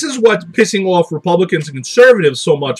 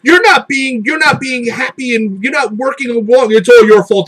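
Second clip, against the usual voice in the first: mock whining conservative; 6 semitones higher than usual. Mocking conservatives crying about being insulted, whiny wail. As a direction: whine like a wounded victim.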